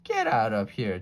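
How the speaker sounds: mild yell. Acted. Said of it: "Jack yelled at it".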